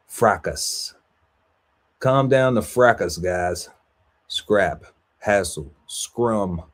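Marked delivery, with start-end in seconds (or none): 2.0-3.7 playful call. Acted. Playful command in list.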